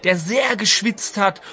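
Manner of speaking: lightly voiced old storyteller; old Homer voice. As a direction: play a rambling old grandpa telling war stories. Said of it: "Homer, kannst du noch mal kurz kommen".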